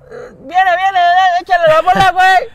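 high, loud mock barrio player calling for the ball; street football shout. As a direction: yell it like a rough pickup-game player wanting the pass. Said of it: "Tiene algún rollo así como de".

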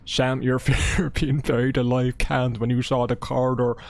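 put-on reading the game's intro in a light Scottish accent; a hammed-up Scottish storyteller voice, loosely held. Streamer reads the Daggerfall intro to chat in a Scottish accent. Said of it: "That was definitely Scottish".

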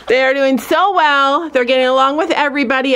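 high, gentle sing-song. Real, not acted. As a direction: keep cooing at the little ducks. Still cooing at the ducks.

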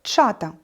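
«чата» with the stress on the first syllable, ЧА-та. Shown as a demonstration. Teacher tells the class the stress of «чата», first syllable stressed. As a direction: lean on the opening «ча» of «чата», then let «та» fall. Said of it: "наголос на першому «а»".

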